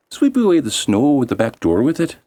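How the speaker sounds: high elf voice; lightly voiced elves; elves' request. Elves instruct girl.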